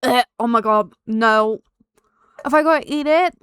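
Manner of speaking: loud, revolted outcry; disgusted shout. Real, not acted. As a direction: yell in disgust at the taste. Tasting the bath bean.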